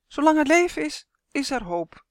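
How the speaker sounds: high, loud opening that drops back down; lightly voiced duck; buzzing duck. A narrator's reading. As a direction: hum it out like a duck, starting high. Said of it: "zoemde de eend".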